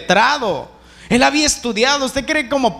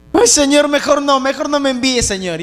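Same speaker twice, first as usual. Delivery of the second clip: higher-pitched imitation of a reluctant pleader; mock pleading; 5 semitones higher than usual. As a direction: beg off with a raised voice, dropping at the end. Voices Moses begging off from mission.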